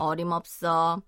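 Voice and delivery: firm brush-off; dismissive no. Shown as a demonstration. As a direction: shut the request down fast. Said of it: "it's a really strong way to say no".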